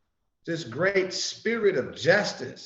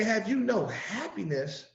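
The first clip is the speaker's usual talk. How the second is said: a hint of a higher, gentle questioning Jesus; 4 semitones higher, slower than usual. Jesus asking poor toilers, lightly voiced and gentle. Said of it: "Jesus say".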